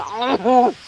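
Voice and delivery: high, drawn-out mock groan; exasperated groan. Agent enduring slow caller, exasperated groan. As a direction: groan as if chewing a pen. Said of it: "I ended up chewing my pen, going".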